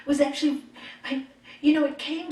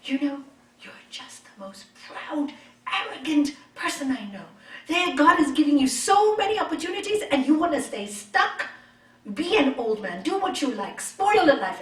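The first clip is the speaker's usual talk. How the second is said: retold angry outburst; 3 semitones higher, 6 dB louder than usual. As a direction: replay the fight, rising into a near shout. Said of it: "I got so angry, so angry".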